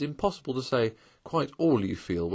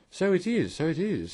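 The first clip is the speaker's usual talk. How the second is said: higher, eager hearty agreement; 9 semitones higher than usual. Acted. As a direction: agree heartily, keen to please. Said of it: "with great heartiness".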